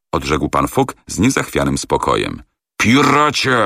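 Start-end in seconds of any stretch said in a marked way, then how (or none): 2.8-3.6 much higher, louder shouted insult; yelled insult. A narrator's reading. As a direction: hurl it at him. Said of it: "wrzasnął Andrew Speedy".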